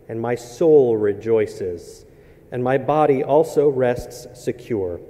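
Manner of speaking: slow, solemn reading of the psalm; scripture reading. Acted. Pastor reading the psalm to the congregation, solemn and measured. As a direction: read each verse with weight and pauses.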